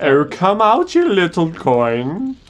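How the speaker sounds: slow high coaxing call. Acted. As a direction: coax it out like a pet. Coaxing a game coin.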